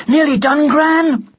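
calling out. Acted. Ned tells Gran he is nearly done, calling out. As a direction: call it up loudly to Gran. Boy calling to his grandmother.

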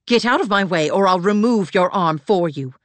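angry snarl at him. A narrator's reading. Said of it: "she snarled at him".

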